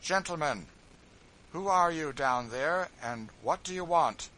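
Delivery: calm, clear voice calling down. A narrator's reading. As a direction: speak calm and clear from above. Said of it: "in a calm, clear voice".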